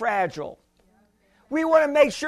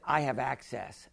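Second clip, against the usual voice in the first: 1 retold reply; 11 semitones lower, 12 dB quieter than usual. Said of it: "I said".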